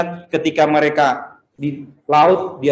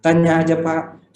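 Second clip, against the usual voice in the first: put-on sales promoter girl; slower than usual. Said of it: "Kan suka begitu ya mereka".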